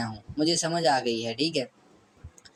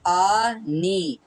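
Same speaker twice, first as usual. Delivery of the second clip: syllable by syllable; much slower than usual. Shown as a demonstration. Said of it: "नून और ई को मिलाया तो बनता है नी".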